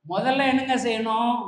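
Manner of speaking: usual speaking voice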